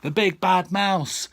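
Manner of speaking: loud, high yell of alarm; a frightened child's sudden yell. A narrator's reading. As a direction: shout it out as the mouse appears. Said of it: "yelled the Gruffalo's child".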